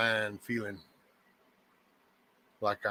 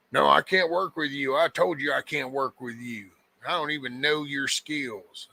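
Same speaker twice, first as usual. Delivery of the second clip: retelling a dude's haughty, raised, louder refusal; egotistical brush-off; 4 semitones higher, 4 dB louder than usual. Retold or imitated. Retelling the dude who snubbed the sheriff, haughty and loud. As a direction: play him smug and dismissive, a bit higher and louder. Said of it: "and acted all egotistical".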